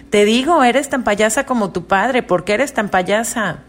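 high, sharp start then trailing off; mother repeating her scolding while paying the stylist; annoyed mother. Retold or imitated. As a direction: nag the crying baby. Mother scolding crying baby again.

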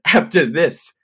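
high, emphatic mock despair; acted freak-out. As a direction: wail it like you're doomed. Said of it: "I'm freaking out".

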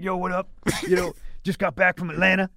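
doing the host's cocky voice; imitating Gerald Kelly. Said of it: "Damn, you kinda sound like him".

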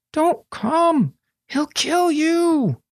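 high, slow, frightened plea; urgent warning. A narrator's reading. Boy silently warning his friend away, frightened. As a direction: warn her off with dread.

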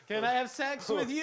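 hammed-up half-shout of the line; shouted mock john line.

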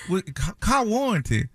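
put-on old Southern woman. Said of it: "I turn into a, uh, old Southern black woman".

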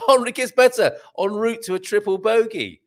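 high, giggly read fighting off laughter; tickled, high-pitched laughing delivery; real amused laughter. Real, not acted. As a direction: read on while cracking up, voice lifted high. Cracking up while reading golf story.

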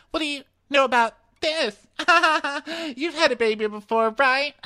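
very high voice broken by laughter; hammed-up girlish cackling between questions; mock giggly gushing. Podcaster mimicking contestant with fake baby bump, high and giggly. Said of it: "And she's like".

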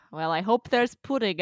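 light dreamy Luna voice; a hint of Luna, lightly voiced; Luna impression. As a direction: drift through it like a daydreamer. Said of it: "That's my Ivana Lynch impression".

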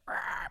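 mock dinosaur roar, lightly done; T-Rex roar. Friend doing a T-Rex impression backstage, a mild mock roar. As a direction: imitate a drunk mate's T-Rex noise. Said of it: "T-Rex impression".

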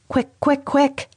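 high, insistent repeated quick; urgent scream. A narrator's reading. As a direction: hurry them up, panicked. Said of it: "I screamed out".

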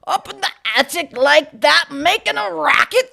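high, loud, overpushed Scottish; strained Scottish accent. Acted. Reader as stranger scolding about the attic, strained Scottish accent. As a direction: force a bad Scottish accent, slow and loud. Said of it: "you're pushing too hard".

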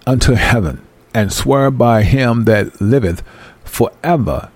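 reading the verse slowly and deliberately. Shown as a demonstration. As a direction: take each phrase slowly so they catch it. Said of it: "I'm gonna read this slow".

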